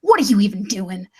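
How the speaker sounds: put-on Texan accent; family friend's accent. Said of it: "I know her accent".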